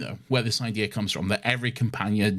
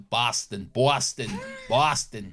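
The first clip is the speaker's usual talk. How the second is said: Boston accent. Shown as a demonstration. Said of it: "Boston accent".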